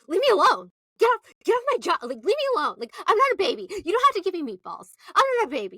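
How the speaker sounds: high, fast mock tirade; imitated drunken freak-out. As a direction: rattle it off high, lashing out in imitation. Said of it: "Bethany fully freaks out".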